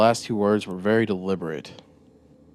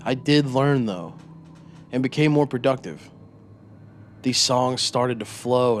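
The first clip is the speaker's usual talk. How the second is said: higher, louder, eager confession; proud storyteller voice; 4 semitones higher, 4 dB louder than usual. Acted. Narrator-character boasts to interrogator.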